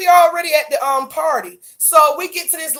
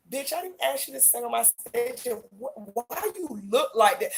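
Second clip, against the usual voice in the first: imitating Jonathan; 2 semitones lower, 10 dB quieter than usual. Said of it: "Jonathan looked at her like".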